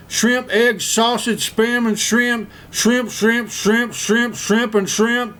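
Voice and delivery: high, slow yelled dummy voice; Bubba dummy voice. Retold or imitated. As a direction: list it out in a squeaky dummy voice. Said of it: "And Bubba screamed".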